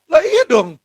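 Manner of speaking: exasperated retort. Real, not acted.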